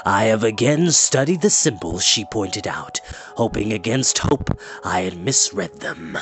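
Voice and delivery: each word wrenched out; heavy-hearted old enchanter. Acted. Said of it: "he spoke with difficulty".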